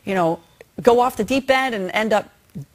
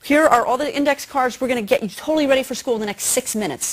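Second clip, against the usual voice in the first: upbeat game-show parent; 3 semitones higher, faster than usual. Pretend. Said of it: "You say".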